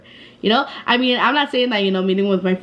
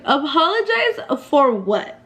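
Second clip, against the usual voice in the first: slow, raised-pitch disbelief, half laughing; incredulous retort; 4 semitones higher, slower than usual. Retold or imitated. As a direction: throw the demand back in mock disbelief. Retold disbelief at apology demand.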